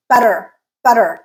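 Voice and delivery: butter twice, final er light; unstressed R ending. Shown as a demonstration. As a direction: keep the er in butter brief and R-colored. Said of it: "it is unstressed".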